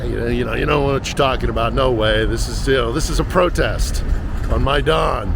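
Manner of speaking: lightly voicing a friend's Irish lilt, scoffing; Irish accent. Retelling a friend brushing off war talk, light mock Irish accent. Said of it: "in that lovely Irish accent of his".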